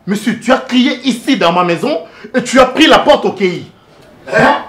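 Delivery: loud, high-pitched indignant tirade; outraged scolding. Acted. Host scolding a man in his house, outraged. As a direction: scold hard, ending on a sharp "hein?".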